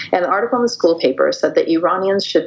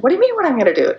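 higher, disbelieving protest; incredulous kid; 9 semitones higher, much faster than usual. Retold or imitated. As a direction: bounce his question back in shock. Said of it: "I was like".

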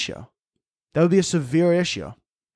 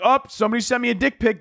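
mock overreaction; 9 semitones higher than usual. Mocks imagined overreacting woman.

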